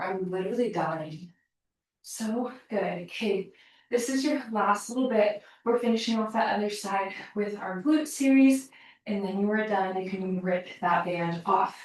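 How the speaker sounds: breathless, winded coaching voice; talking through heavy breathing. Real, not acted. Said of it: "I'm out of breath".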